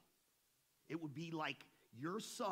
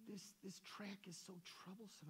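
put-on fretful old lady; 4 semitones higher, 10 dB quieter than usual. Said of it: "She goes".

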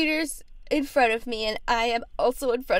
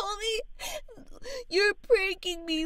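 high, slow tearful whine; fake crying; 7 semitones higher, slower than usual. Caller accuses tech helper of pranking, crying. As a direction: accuse through put-on sobs. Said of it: "Just please stop crying".

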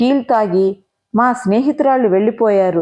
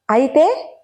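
short puzzled rise, a bit higher; puzzled question; 4 semitones higher, slower than usual. A narrator's reading. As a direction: ask it lost and puzzled. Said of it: "అయోమయంగా అన్నాను". (అయోమయంగా అడగడం)

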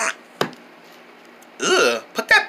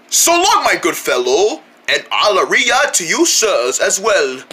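put-on posh British accent. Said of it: "Stop speaking our language".

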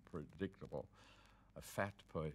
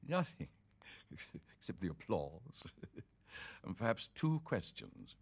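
laughing; 2 semitones higher than usual. Real, not acted. Laughs while telling.

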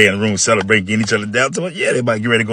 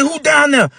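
put-on high, loud angry old man shouting; 4 dB louder, slower than usual. Old man catching the boys, angry high shout. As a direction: yell down the stairs like a furious old man.

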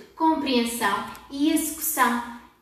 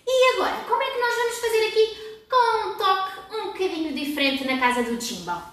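excited teacher voice; 6 semitones higher than usual. Acted. Building suspense for kids.

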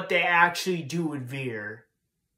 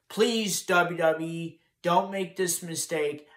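pleading please. Real, not acted. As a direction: beg them, pitch up on it. Begging WWE to change course.

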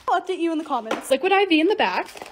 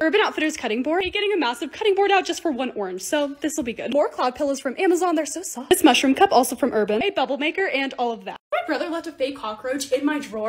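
usual speaking voice

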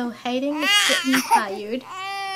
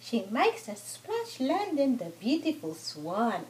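lilting picture-book narration; children's story reading; 4 dB quieter than usual. Acted. Mother reads a farm book to her toddler, children's story reading. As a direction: read rhymes to a toddler.

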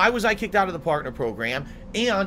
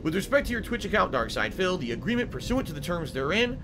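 reading out the email. Real, not acted. Reads Twitch email aloud.

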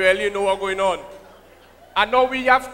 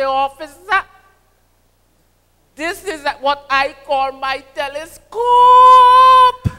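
higher, louder sing-song calypso storytelling; John Agitation impression; 4 semitones higher, 5 dB louder than usual. Comedian telling a rude joke to the crowd, loud and sing-song. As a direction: ham up the bawdy tale like a calypsonian. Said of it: "That agitation".

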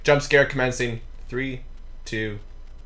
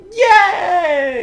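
put-on little girl voice; 6 dB louder than usual. Joins the mock girl reading.

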